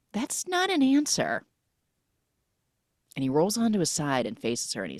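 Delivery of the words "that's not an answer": mock protest. Acted objection to evasive reply.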